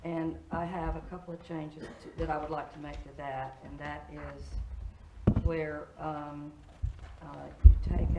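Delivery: hoarse, raspy voice; raspy whisper. Real, not acted. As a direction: talk through a rough, raspy throat. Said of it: "excuse my voice".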